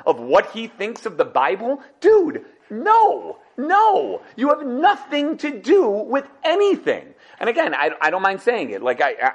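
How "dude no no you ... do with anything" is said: loud, high laughing "Dude, no"; laughing refusal. Real, not acted. Rabbi scoffing at a Harvard critic, laughing loud refusal. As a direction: brush him off with a laughing shout.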